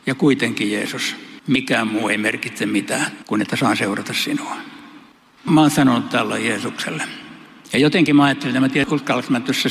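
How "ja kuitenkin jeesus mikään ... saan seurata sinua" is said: 1 humble earnest reply. Pretend. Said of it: "Pietarin vastaus oli tällainen".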